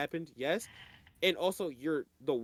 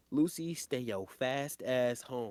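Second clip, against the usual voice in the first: black grandma voice; 2 semitones lower, 4 dB quieter, slower than usual. Retold or imitated. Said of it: "In my best black grandma voice".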